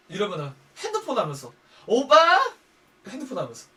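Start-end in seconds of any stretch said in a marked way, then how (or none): 1.9-2.4 loud, high questioning call; nagging partner. Acted. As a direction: call out to someone who is ignoring you. Nagging a boyfriend on his phone.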